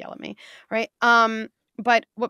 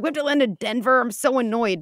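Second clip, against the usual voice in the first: mock annoyed passenger; 4 semitones higher, 5 dB louder than usual. Passenger complaining.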